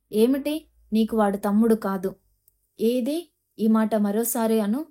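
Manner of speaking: a sharp, challenging mother's rebuke; understated furious challenge; fierce and sharp. Acted. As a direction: dare her to say it again, mildly heated. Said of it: "విసురుగా ... తీక్షణంగా చూస్తూ అంది".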